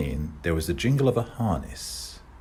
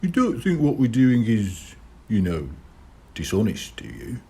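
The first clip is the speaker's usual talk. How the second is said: put-on young boy voice; 4 semitones higher than usual. Kid voiced by narrator.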